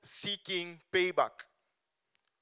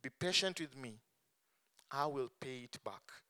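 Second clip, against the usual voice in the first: begging; 3 semitones lower, 7 dB quieter than usual. Acted. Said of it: "begged him".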